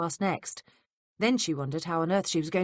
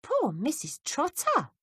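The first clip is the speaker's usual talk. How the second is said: sympathetic; 11 semitones higher, slower than usual. A narrator's reading. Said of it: "shook her head sympathetically".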